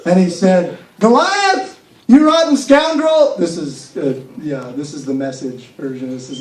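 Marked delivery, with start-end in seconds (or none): 1.0-3.3 higher, louder and slow heroic call; defiant challenge. Acted. David taunting Goliath across the field, loud and defiant. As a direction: call out the giant boldly.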